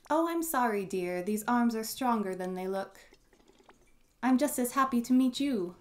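put-on a friendly elderly neighbour greeting; kindly old woman. Voices Mori, grandpa's old friend.

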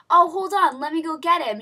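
loud, high teasing offer; imitating producer. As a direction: play a producer pretending to oblige. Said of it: "And he was like".

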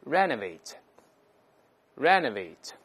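renovate read slowly and clearly, first syllable stressed; model reading. Shown as a demonstration. Teacher models the word for the class, slow and clear. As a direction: drill renovate slowly for students. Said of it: "我们再读一下".

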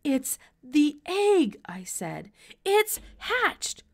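slow, gasping words after running; out of breath. A narrator's reading. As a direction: pant it out, still winded. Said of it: "I was so out of breath".

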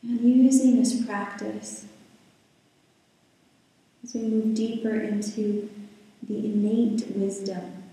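calm, unhurried guiding voice with long pauses; guided meditation. Real, not acted. Yoga teacher settling the class into breath and body, guided meditation. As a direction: ease listeners into stillness, leaving space between phrases.

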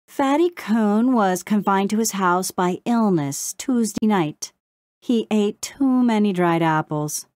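lilting news report; sing-song. A narrator's reading. Crow reading out news to Brownie, sing-song. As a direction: recite the gossip like a headline. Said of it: "in a sing-song voice".

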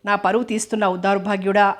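a mild, lightly voiced fatherly scold. Father scolds his son for shaming him, mild angry scold. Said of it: "అంటూ తిట్టాడు".

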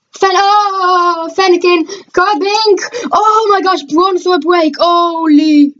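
awestruck, excited reveal; real excitement. Real, not acted. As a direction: react like you just pulled the rare card. Pulls first ever break card.

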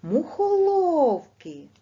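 Мухоловки slow and loud, the ло pushed up high; stress on third syllable. Shown as a demonstration. Teacher shows second graders the stress, slow and loud. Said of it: "На третій".

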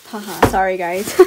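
nervous laugh. Real, not acted. Messy unboxing apology.

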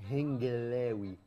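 slow and clear. Shown as a demonstration. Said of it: "قول له هنجلاوي".

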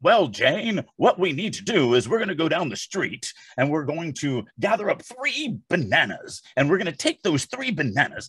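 hammed-up parody of a stiff character line; mock clunky dialogue. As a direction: read it like wooden, unnatural book dialogue. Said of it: "it's so clunky".

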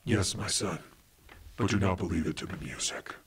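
lightly acted solemn dad, a touch low; mock-profound fatherly reply; deep father. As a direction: answer gravely, as a father to his son. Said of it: "Was that deep?".

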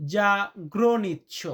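জাগ্রনিচ্ছ drawn out slowly, each syllable as za-gra-nich; slow careful জাগ্রনিচ্ছ; Polish word demo. Shown as a demonstration. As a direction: model জাগ্রনিচ্ছ slowly for learners. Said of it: "এটাকে আমরা পোল্যান্ডে বলি".

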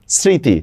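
স্মৃতি with no m sound; silent m. Shown as a demonstration. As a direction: say স্মৃতি as "sriti", dropping the m. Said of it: "মফলার উচ্চারণ হচ্ছে না".

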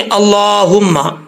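अल्लाहुम्मा with long "laa" and full breathed H; measured recitation of अल्लाहुम्मा; clear "ha". Shown as a demonstration. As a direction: carefully stretch अल्लाहुम्मा to show the H. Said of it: "इसके अंदर जो हा है".

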